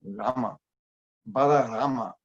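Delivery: "Rama" with a French throaty r; French-accented "Bala Rama", "Hari Rama". Shown as a demonstration. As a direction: roll "Rama" at the back of the throat, French style. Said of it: "That's the French accent".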